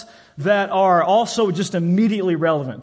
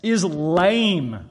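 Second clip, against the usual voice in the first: slow disgust; much slower than usual. Retold or imitated. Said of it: "John said".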